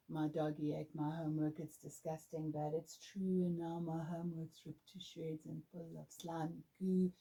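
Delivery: soft, distracted rattling off of words; unfocused recitation. Shown as a demonstration. Teacher showing an unfocused poem reading, flat and soft. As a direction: mumble it like memorized lines. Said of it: "That's not focused".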